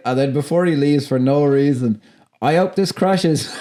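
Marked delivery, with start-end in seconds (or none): 2.4-3.5 slow parting jibe. Retold or imitated. Parting line quoted with laughter.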